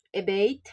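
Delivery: second syllable of "Evade" stressed. Shown as a demonstration. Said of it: "The stress is on the second syllable".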